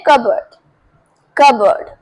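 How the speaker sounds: कबर्ड said kuh-bird, silent p; teacher models कबर्ड as kuh-bird with no p sound; correct cupboard. Shown as a demonstration. Teacher shows students the right way: कबर्ड as kuh-bird. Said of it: "सही pronunciation है कबर्ड".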